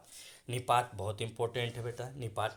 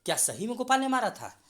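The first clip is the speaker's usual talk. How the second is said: surprised question; 10 semitones higher, 5 dB louder than usual. Acted. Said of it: "तो अगला व्यक्ति कह सकता है".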